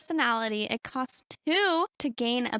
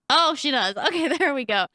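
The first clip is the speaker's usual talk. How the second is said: laughing surprise; 2 semitones higher, 6 dB louder, faster than usual. Real, not acted. Laughing at the Sim's reaction.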